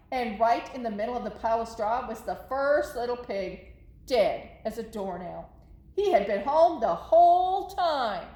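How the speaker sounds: put-on lively read-aloud for kids; story narration. A narrator's reading. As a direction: tell it to the kids as the wolf. Reading the Wolf's story to children.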